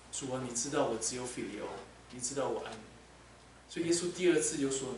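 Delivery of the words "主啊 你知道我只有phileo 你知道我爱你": soft, hushed confession; shamed confession. Acted. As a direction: admit it quietly, ashamed. (彼得羞愧地低声认罪)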